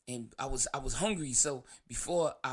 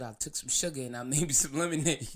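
real laugh slipping out mid-sentence; breaking into laughter. Real, not acted. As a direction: laugh creeping into the words. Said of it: "I'm gonna stop laughing".

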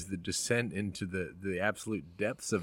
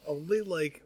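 laughing through the words; 6 semitones higher, 5 dB louder than usual. Real, not acted. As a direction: giggle while admitting it. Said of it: "Only, like, twenty percent of that".

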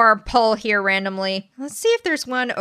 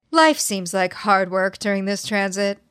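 honeyed southern lawyer drawl. Acted. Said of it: "you read that like a Southern lawyer or something".

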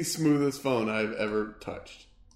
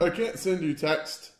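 annoying guy; 6 semitones higher than usual. Retold or imitated. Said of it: "this one really annoying guy that's like".

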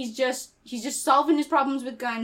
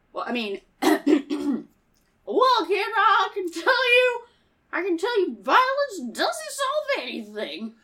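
cowboy hero; 6 semitones higher, slower than usual. Acted.

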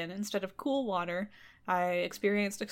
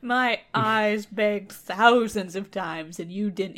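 louder, slow lament; dramatic reproach; 6 dB louder, slower than usual. Acted. Fairy loudly reproaching the king, dramatic. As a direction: plead it out big and slow.

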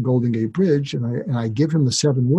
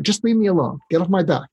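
put-on mildly surly teen, pitched higher; 5 semitones higher, faster than usual. Teenager rebuffing a worried parent, mildly surly. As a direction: push the parent away, a touch irritated. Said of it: "they're surly".

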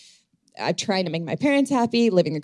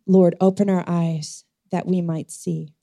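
prayer. Real, not acted. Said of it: "let's make that our prayer tonight".

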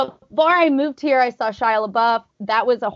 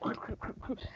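quick voiceless puffs of breath; mock panting on a run; imitated jogging breaths; 19 dB quieter than usual. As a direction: huff like a runner mid-jog.

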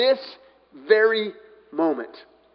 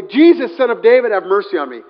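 a raised, pleading cry easing off; 7 dB louder than usual. Acted. Blind beggar calling to Jesus, crying out. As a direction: call out for mercy, loud at first. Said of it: "he began to cry out and say".

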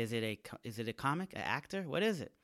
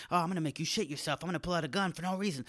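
fast mock cop threat; 5 semitones higher, much faster than usual. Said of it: "they're like".

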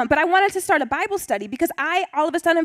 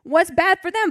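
higher, indignant retold protest; mad; 7 semitones higher, 4 dB louder than usual. Angry teen Tara complaining about the pastor's wife, indignant. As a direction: replay your teenage outrage. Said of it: "I was mad".

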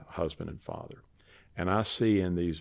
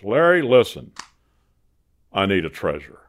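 Carl's pitch voice; 10 dB louder than usual. Retold or imitated.

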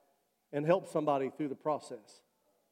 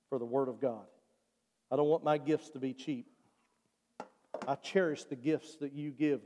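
spoken prayer; 4 semitones lower than usual. Real, not acted. Prays aloud for congregation.

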